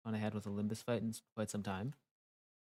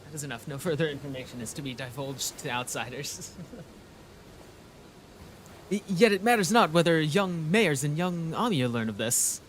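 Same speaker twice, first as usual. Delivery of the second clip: lightly voiced pompous knight; 2 semitones higher, 3 dB louder than usual. Voices Don Quixote lecturing.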